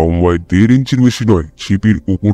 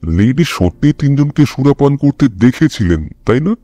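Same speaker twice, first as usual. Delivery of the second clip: a light lean on দেখেছিলেন, the rest of the line plain; slight stress on দেখেছিলেন; 4 semitones higher than usual. A narrator's reading. Holmes questions Hopkins about the lady's account, light stress on দেখেছিলেন. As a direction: gently press the word দেখেছিলেন. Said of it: "দেখেছিলেন শব্দটার উপর সামান্য জোর দেয় Holmes".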